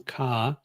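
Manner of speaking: "ka" said with a falling tone, pitch dropping; "ka" falling, a Thai tone demo. Shown as a demonstration. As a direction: let "ka" fall. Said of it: "going down".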